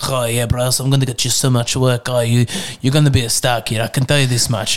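mildly gruff agent voice. Acted. Talent agent promises young hopeful lots of work, mildly gruff. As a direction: put on a slightly gruff talent scout. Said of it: "that gruff".

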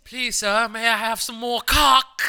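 high, loud, slow begging parody; hammed-up high plea; mock Oliver plea. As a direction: beg like an orphan. Parodying porn line.

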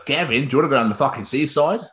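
badly attempted Aussie bloke; matey Aussie impression, slightly hammed-up; mock Australian accent. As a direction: put on a rough attempt at Australian, rising at the end. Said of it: "imagine an Aussie here".

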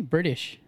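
"British" with a D for the T. Shown as a demonstration. Aussie showing his own way, "British" with a D. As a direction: soften the middle of "British" to a D. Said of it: "No, I say D".

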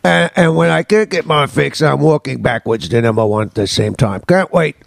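lightly put-on British accent; mock English accent for letter reading; like a singer. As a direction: finish the letter as a Brit. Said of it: "I get to sound like a singer again".

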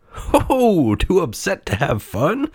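high, mocking clown voice; scoffing clown. A narrator's reading. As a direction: scoff with a jolly ho-ho. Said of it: "scoffed a clown".

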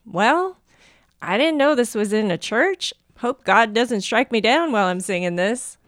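put-on lightly Southern-accented reading. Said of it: "just said that with a Southern accent".

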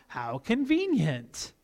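slow, knowing mock remark; dry sarcasm. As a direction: say it drily, drawn out, seeing through the trick. Dad's dry aside on invitation.

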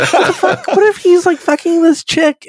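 high, squeaky voice breaking into laughter; laughing while talking. Real, not acted. Podcaster imagining the captain walking in, real helpless high laughter. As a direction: crack up as you get it out. Cracking up at his imagined scene.

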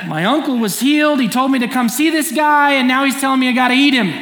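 loud, high and rushed near the end; a bewildered crowd member blurting it out with a laugh; mock outraged listener, half laughing; baffled crowd member. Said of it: "And the crowd's going".

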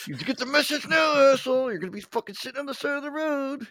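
high, loud mocking sneer; high sneering put-on voice; taunting thug voice. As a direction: jeer at him like a thug. Guy taunting, retold.

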